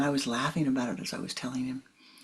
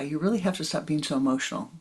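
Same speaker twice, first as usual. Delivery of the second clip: faster, offhand repeat of the scolding; weary repeated admonition; faster than usual. Retold or imitated. Teacher telling student yet again, brisk and routine. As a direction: toss it off like the hundredth time. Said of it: "Every time I'd have a one-on-one".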